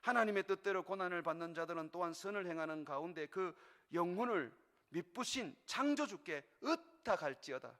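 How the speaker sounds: solemn Bible reading voice; scripture reading. Acted. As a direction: read the verse out to the congregation. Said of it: "이렇게 우리에게 가르쳐주고 있습니다". (엄숙한 성경 낭독)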